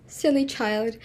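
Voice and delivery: a laugh, then slow, amused scolding; laughing fondly. Acted. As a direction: chuckle it out slowly at the child. Mother laughs at daughter.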